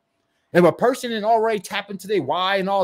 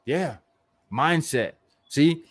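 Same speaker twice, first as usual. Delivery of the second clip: ordinary delivery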